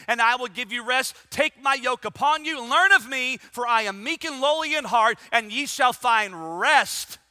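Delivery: loud pulpit scripture reading, building; preached scripture. Real, not acted. Preacher giving Jesus' promise to the weary, forceful proclamation. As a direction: proclaim the verse, drawing out its last words.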